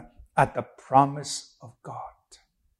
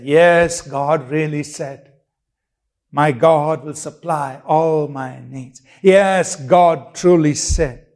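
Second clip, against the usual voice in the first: firm declaration. Acted. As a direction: answer the devil with unshakable certainty. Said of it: "you put your shield out and say".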